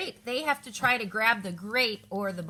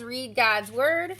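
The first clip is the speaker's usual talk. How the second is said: slow card read; 4 dB louder, much slower than usual. Shown as a demonstration. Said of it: "One says".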